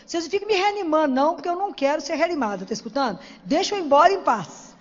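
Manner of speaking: mock-stern orders to the nurses; insistent demand. Telling the ICU staff not to revive her, insistent.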